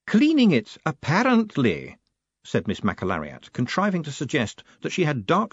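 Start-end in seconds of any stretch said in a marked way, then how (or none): 0.1-2.0 a formidable lady laying down the law; imperious high-pitched battleaxe; demanding old woman. Acted. Matron's voice held.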